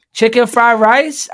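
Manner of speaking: loud, high, drawn-out questioning call; hammed-up delivery driver's call; imitated delivery man.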